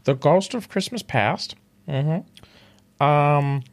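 a hint of Kermit telling a bedtime story; mild Kermit musing about his best friends; Kermit the Frog impression. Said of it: "Kermit the Frog".

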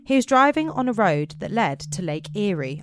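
measured, deliberate read-aloud voice; story narration. A narrator's reading. Narrator introducing Chris on patrol, in story narration. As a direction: set the wintry scene with careful phrasing.

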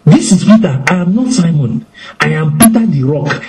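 lightly voiced boasting Peter; boastful Peter. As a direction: swagger as the rock. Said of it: "might have told Jesus".

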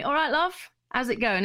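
high chirpy greeting; calling Corey on the phone, chirpy; her own greeting. Retold or imitated. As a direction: sing out the greeting. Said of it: "just say".

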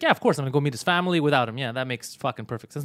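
quick mock agreement, dropping off at the end; retold sarcasm, rattled off then sinking; sarcastic. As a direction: agree with heavy irony. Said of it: "And sarcastically".

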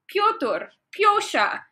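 rising, drawn-out dramatic name litany; hammed-up Russian novel character; mock Russian name-calling. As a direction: wail the Russian names like a melodrama.

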